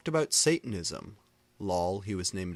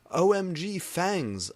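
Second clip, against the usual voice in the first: thrilled squeal; 10 semitones higher, 6 dB louder than usual. A narrator's reading. Narrator thrilled at clothes.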